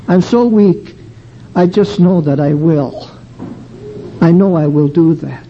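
tearful plea. Retold or imitated. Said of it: "I found myself crying to God".

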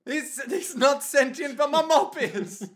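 put-on high, laughing old man voice; silly old man voice. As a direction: play the body-swapped caretaker. Voicing caretaker in mop body.

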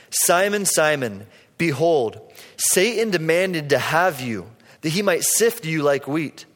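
slow, measured reading of Jesus' words; a sermon's Bible reading, slow and solemn; solemn scripture reading. Acted. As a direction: read it slow and weighty, like scripture aloud.

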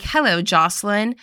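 lightly imitated Cockney greeting; hint of a Cockney thug; Cockney villain accent. Host as thugs greeting Jocelyn, light Cockney accent. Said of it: "What's that English accent they have?".

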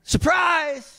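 high-pitched, drawn-out reveal; mock angel springing into view; playful angel surprise. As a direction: pop out with a singsong surprise. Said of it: "they go".

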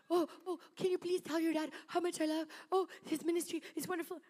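high, lightly voiced adoring fan; a hint of breathless flattery; gushing church lady. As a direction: gush over the preacher's ministry. Church lady gushing about dad.

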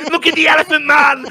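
high, loud mock gawker; jeering crowd. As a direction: hoot at a freak show in falsetto. Victorian crowd jeering at freak show.

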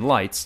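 "lights" said the plain American way; American-English "lights", set apart; American pronunciation. Shown as a demonstration. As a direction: say "lights" as a separate American word. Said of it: "the phrase in English or in American".

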